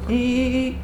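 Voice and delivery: high squeaky dolphin calls; chirpy clicking dolphin. Pretend. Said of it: "is it an E or is it like an ah?".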